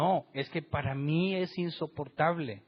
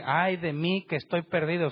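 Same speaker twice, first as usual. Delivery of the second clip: higher and louder, "Ay" cried out; loud lament; 4 semitones higher, 5 dB louder than usual. Shown as a demonstration. Preacher repeating Isaiah's cry to the church, raised and louder. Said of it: "Y él dice".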